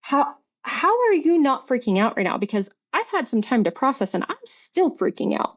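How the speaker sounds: exasperated, pitch leaping on key words; retold incredulity. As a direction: demand an answer, reliving the argument. Retold confrontation with her ex.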